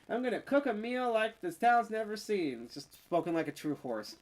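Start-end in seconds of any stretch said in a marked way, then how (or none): 0.1-2.6 put-on southern accent. Streamer voicing a game villager's Turkey Day boast in a hammed-up Southern accent. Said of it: "I don't know why I have a southern accent".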